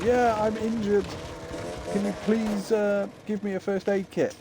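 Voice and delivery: high-pitched put-on voice of a game character; imitating a wounded woman, pitched well up; imitated injured woman. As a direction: plead for help in a mock high female voice. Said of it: "and she's going".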